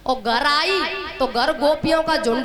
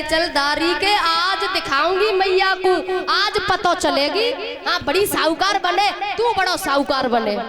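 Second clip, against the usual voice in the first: raised, high-pitched scolding; scolding threat; 5 semitones higher than usual. Acted. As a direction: threaten him like an angry milkmaid. Angry Gopi drags him along. (गोपी की ऊँची आवाज़ में धमकी)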